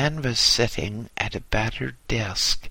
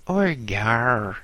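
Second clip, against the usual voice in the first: Cockney "Oor ye are" repeated, falling and flat. Acted. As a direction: say it again, wearily falling. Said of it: "she repeated".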